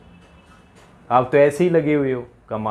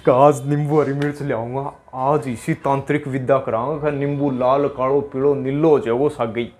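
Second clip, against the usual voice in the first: mock village tantrik.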